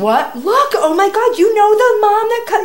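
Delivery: loud, high, gushing disbelief; building to a high, loud exclamation; astounded excitement. Retold or imitated. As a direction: urgently make someone see the amazing coincidence. Retells explaining the sign to son.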